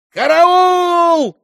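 high, loud scream for help; shouting for help. A narrator's reading. Old father screaming for the guards, high and loud. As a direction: scream the alarm at full voice. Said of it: "завопил старик".

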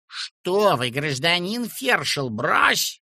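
high, loud snapping brush-off; curt retort. A narrator's reading. Woman snaps back at the feldsher, curt. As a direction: cut him off. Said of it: "отрезал фельдшер".

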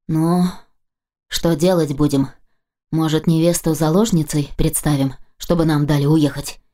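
calm. Acted. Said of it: "интересуется спокойно сосед водителя".

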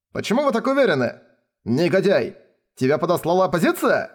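high, fast, heated accusing; outraged nobles confronting Frode; angry accusation. A narrator's reading.

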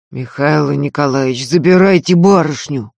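pressing, firm request; insistent. Acted. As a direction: push the words hard. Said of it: "с нажимом попросил Ефим".

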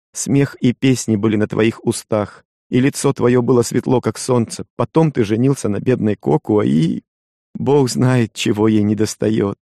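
lightly voiced young wife, hurt and reproachful; Kokua, a hint of a wife's reproach. (лёгкий голос обиженной жены)

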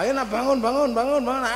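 a flustered dad's wake-up call; calling kids awake. Retold or imitated. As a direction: rouse sleepy children out of bed. Father wakes kids in morning.

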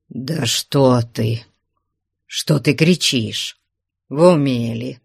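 calming. Acted. Man calms jealous woman.

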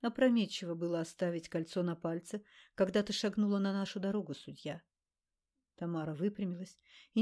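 ordinary delivery

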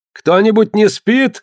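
called out high and slow; a sentry calling out into the dark. A narrator's reading. Sentry calls out across the deck, high slow call. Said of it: "крикнул он".

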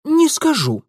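high, loud blurted refusal. A narrator's reading. Girl blurting her refusal to Mitya, high and loud. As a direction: snap out a refusal. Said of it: "решительно выпалила".

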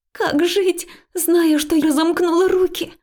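high, loud tearful cry; mild weeping protest of a friend. Acted. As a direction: wail it through tears. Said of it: "Она тоже плакала".

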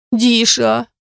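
high squeaky call of a nickname. A narrator's reading. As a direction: squeak the name out. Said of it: "писклявым голосом произносит Рита".

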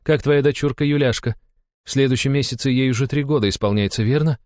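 high, composed countess; calm, kindly. A narrator's reading. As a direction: ask gently after the child. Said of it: "спокойно проговорила графиня". (спокойно и ласково)

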